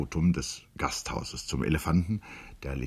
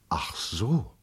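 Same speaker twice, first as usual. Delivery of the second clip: defeated. A narrator's reading. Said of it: "sagte sie geschlagen".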